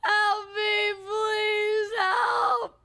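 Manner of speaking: calling out, half playing; mock yell for help. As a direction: shout for rescue with a pleading edge. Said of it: "I'm yelling".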